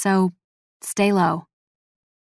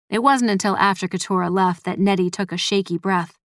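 plain reading voice

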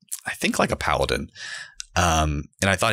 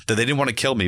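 ordinary talk

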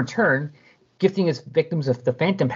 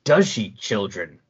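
slow, gloating villain line; villain sneering at the kids, slow and gloating; slow villain taunt; 4 semitones lower, slower than usual. Retold or imitated. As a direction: draw it out to mock her.

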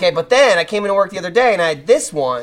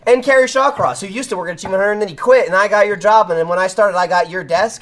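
show host intro; 3 semitones higher than usual. Shown as a demonstration. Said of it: "Let me do that thing".

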